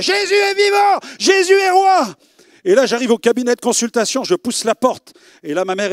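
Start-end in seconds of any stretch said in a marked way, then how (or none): 0.0-2.1 high loud joyful shout; shouting joyfully. Retold or imitated. Young convert yelling his joy through the city streets. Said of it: "je criais".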